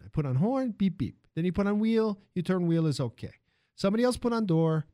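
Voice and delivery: put-on animated foreign-accented factory hand; lilting, choppy foreign accent; excited immigrant worker. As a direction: explain the idea eagerly in immigrant English. Armando explains assembly line idea.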